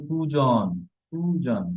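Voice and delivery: কুজন with a lengthened first u; long vowel. Shown as a demonstration. Teacher illustrating a long vowel, drawn out. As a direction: hold the কু of কুজন. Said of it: "মানে এটা একটু দীর্ঘ".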